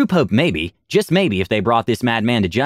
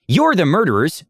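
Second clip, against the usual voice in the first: raised, higher crowd accusation; mild mock shout; 6 semitones higher than usual. Refugee accusing the party, mild shout. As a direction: call it out from the back. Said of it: "another shouted".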